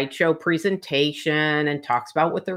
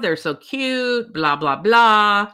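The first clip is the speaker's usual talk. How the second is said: higher-pitched, drawn-out fawning; mock gushing; 6 semitones higher, 4 dB louder, slower than usual. Crochet group raving about her dolls, mock gushing. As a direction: imitate a group cooing over something adorable. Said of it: "everybody was losing their mind".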